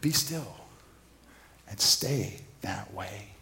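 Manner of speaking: slow, firm parental command. Shown as a demonstration. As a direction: lay down the law like a parent, slowly. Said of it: "every parent wishes that actually works".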